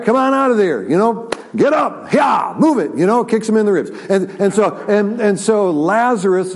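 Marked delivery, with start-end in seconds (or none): 0.0-3.0 commanding call to come out. Acted. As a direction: shout him out of the grave. Jesus calling Lazarus from tomb.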